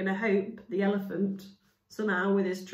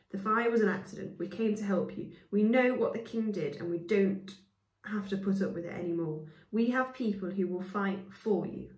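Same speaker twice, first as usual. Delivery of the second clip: speaking fast. Acted. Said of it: "speaking fast".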